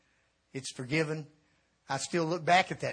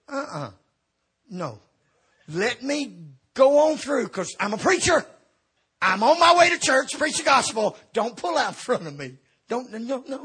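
frantic pleading; 6 semitones higher, 6 dB louder than usual. Retold or imitated. Pleading with car at stop sign.

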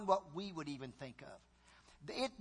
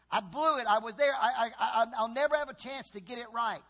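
regret; 4 semitones higher, 5 dB louder than usual. Acted. Damned soul regrets.

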